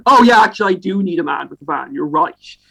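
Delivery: feigned "oh, of course" tone; sarcastic agreement. Pretend. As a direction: pretend to agree with a ridiculous caller. Mock agreement with wrong-number caller.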